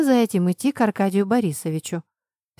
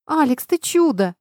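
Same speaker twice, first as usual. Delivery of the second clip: higher, louder, smiling; delighted exclamation; 7 semitones higher, 5 dB louder than usual. A narrator's reading. Oxy thanking Alex for the article, smiling. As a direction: cry it out, thrilled. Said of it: "воскликнула я, улыбаясь".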